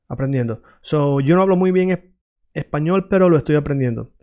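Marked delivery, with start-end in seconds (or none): 1.2-4.1 quick, run-together Spanish; fluent pace with a small hitch; said fast. Shown as a demonstration. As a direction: rattle the phrase off briskly. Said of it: "maybe I said it fast".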